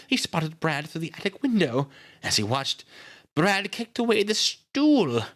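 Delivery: high-pitched character voice telling what happened; grieving sister, distressed. A narrator's reading. Nita tells Miss Miller how Brad was found, distressed.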